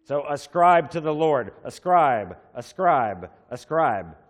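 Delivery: preacher hammering the word ascribe; emphatic repetition. Shown as a demonstration. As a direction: drive home ascribe three times. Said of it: "he's greatly emphasizing something".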